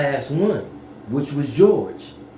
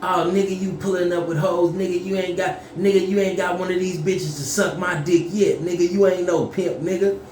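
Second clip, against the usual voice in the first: higher-pitched, running taunts; trash-talking cousin; 4 semitones higher than usual. Retold or imitated. Big cousin greeting him as he pulls up, mock trash talk. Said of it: "He already talking shit".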